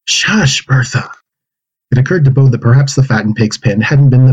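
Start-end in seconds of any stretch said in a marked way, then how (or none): 0.1-1.1 a high, voiced "Shush" with a falling end; urgent shush. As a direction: hush the pig sharply, voice up high. Boy hushing the pig.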